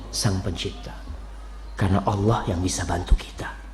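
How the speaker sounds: hushed whisper for emphasis. Acted. Preacher whispers to the congregation that iron can bend, hushed. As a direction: drop to a secret whisper. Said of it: "whispered point".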